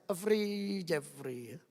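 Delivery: quiet repeated "Jeffrey", fading; Madurese way of calling. Shown as a demonstration. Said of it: "Nek orang Madura ndak bisa".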